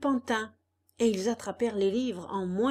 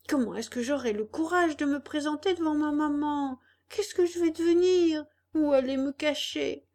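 weeping; 2 semitones higher than usual. Acted. Puppet pleads over his fallen friend, mild tearful plea. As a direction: beg him to wake up, near tears. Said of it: "en pleurant à chaudes larmes".

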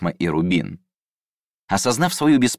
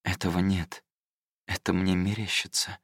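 softer, flat inner voice; monotone; 7 dB quieter than usual. Acted. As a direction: drone it like a ticking clock. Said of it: "монотонный, как тиканье часов".

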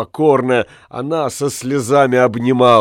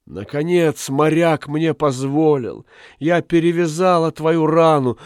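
pleading wife; 4 semitones higher than usual. Acted. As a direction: voice a guilty loving wife begging forgiveness. Kalliken's long confession to her husband.

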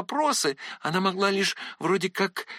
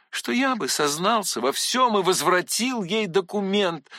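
plain reading voice

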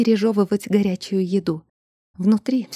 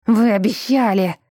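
peeved outburst, a bit louder; irritated yell; 4 dB louder than usual. A narrator's reading. Spirit protesting to the accomplice, irritated yell. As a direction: yell it in annoyance. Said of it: "раздражённо завопил".

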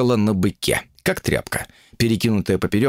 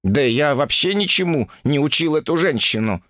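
higher-pitched self-justification; defensive excuse; 6 semitones higher than usual. Acted. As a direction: protest your innocence. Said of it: "попытался оправдаться Укун". (оправдываясь)

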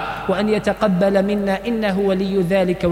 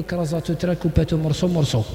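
lightly voiced speaker of French-laced dialect, said offhand; mock the mixed slang gently; mock street dialect; 4 semitones lower than usual. Preacher mocking the young man's mixed dialect, lightly voiced. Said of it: "وراهي اللغة العربية".

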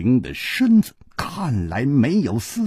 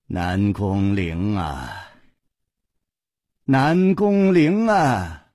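long anguished sigh; 5 semitones higher, slower than usual. A narrator's reading. Nangong Ling laments his twenty years of kung fu, anguished sighing. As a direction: bewail it, stretching every phrase. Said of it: "他仰天长叹".

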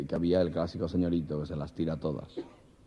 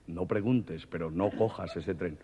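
a mysterious voice warns him off the train; ominous voice; 4 dB quieter, slower than usual. Acted. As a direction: drop the voice like a ghostly warning.

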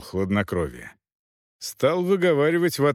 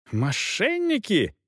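outraged yell; 8 semitones higher, slower than usual. A narrator's reading. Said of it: "в ответ орал фон Финк".

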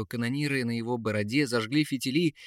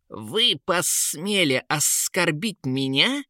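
furious outcry; 6 semitones higher, slower than usual. A narrator's reading. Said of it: "бешено закричал он".

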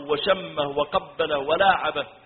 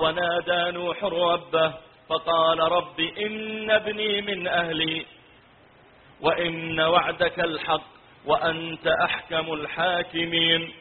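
slow melodic tilawa; Quran recitation; slower than usual. Acted. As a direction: recite slowly, drawing out the long vowels. (تلاوة قرآنية مرتلة)

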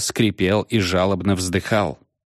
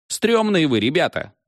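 creeped out; 8 semitones higher than usual. Acted. Scared remark.

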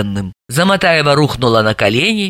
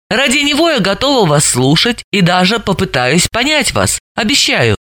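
kindly request; 6 semitones higher than usual. Acted. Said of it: "по-доброму попросила".

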